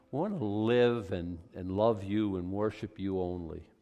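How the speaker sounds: earnest pastor's prayer; closing prayer voice. Acted. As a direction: pray over the congregation.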